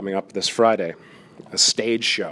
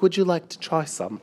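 put-on slightly raised, botched Scottish accent; bad Scottish accent; 7 semitones higher than usual. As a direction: attempt a Scottish accent and miss. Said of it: "that's a horrible Scottish accent".

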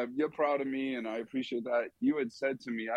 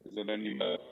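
robot voice; 3 semitones lower, 4 dB quieter, faster than usual. Real, not acted.

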